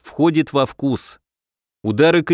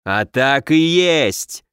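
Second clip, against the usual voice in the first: mild bark; much slower than usual. Acted. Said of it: "рявкнул Ислав".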